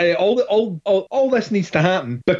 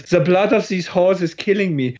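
Udo Kier impression; 2 semitones higher than usual. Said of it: "used to have a great line from, from Udo Kier".

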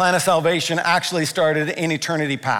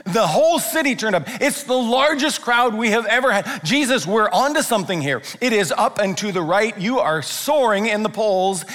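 excited Peter; 4 semitones higher than usual. Retold or imitated. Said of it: "imagine the conversation like".

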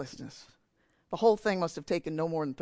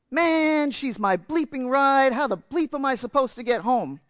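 mock angry protest; 6 semitones higher, 6 dB louder, slower than usual. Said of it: "the young man argues back".

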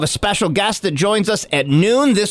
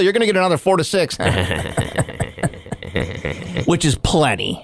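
mock weather report.

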